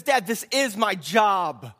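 put-on mildly imploring boy; pleading. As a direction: plead earnestly with a parent, drawn out. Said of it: "He begins to plead and he says".

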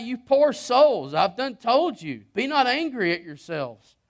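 slow, tender and pitying, lightly voiced. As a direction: speak to them like a broken-hearted brother, slowly. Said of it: "He was broken".

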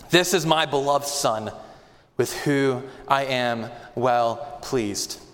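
solemn Father's words. Acted. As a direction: let the words settle slowly, with awe. Quoting the Father at baptism.

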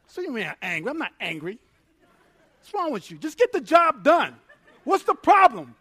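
hammed-up defensive pastor; defensive denial. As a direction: bluster and deny it, rising to a mild yell. Pastor reenacts his angry denial.

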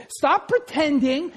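ordinary delivery

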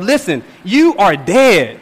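"you are dead" spaced out slowly and firmly; emphatic. Acted. Preacher voicing Paul's key point to the church, emphatic. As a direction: land hard and slow on "you" and "dead". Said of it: "Paul makes the emphasis of".

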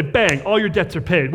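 punchy, upbeat "Bang" to open the good news; a cheerful, emphatic declaration; rich uncle's announcement. Retold or imitated. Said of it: "a rich uncle to step in and say".

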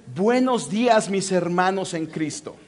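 put-on plain Latin American Spanish accent; native Spanish greeting. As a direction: model the Spanish greeting for a learner. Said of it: "Well, with a different accent".

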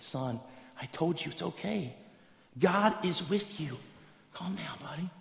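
hushed, patient reassurance; calming dad. Acted. Dad telling his son it's okay, soft and calming. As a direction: talk a child down softly.

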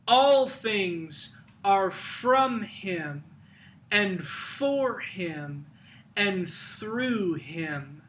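slow, weighty phrases with pauses; measured scripture recitation. Acted. Preacher quoting Paul on all things, measured and weighty. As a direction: let each phrase land slowly.

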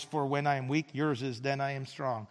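soft, low call for the congregation; leading the congregation in a call and response. Shown as a demonstration. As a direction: say your half back to me. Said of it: "My line is, yours is".

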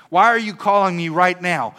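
imitating an annoyed phone answer; mock indignation. Kid answering the pastor's midnight call, mock indignant. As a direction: demand an explanation, acted out lightly.

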